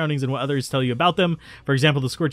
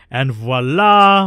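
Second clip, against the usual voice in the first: showy voila; 7 dB louder, much slower than usual. Pretend. Flourish on entering world map.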